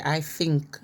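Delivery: "think" said as "fink". Shown as a demonstration. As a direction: start "think" with an F. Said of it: "F I N K".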